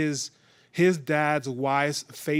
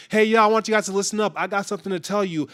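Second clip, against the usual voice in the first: eager announcement; 4 semitones higher, much faster than usual. Retold or imitated. Joseph calls his family to listen to his dream, fast and excited. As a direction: rush to grab everyone's attention.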